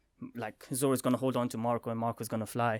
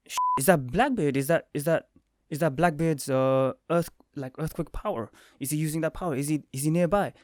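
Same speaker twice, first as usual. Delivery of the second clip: excited alarm; 3 semitones higher, 4 dB louder than usual. Retold or imitated. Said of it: "I was like".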